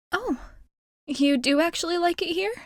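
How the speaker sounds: light surprised disbelief. Acted. Listener reveals liking it.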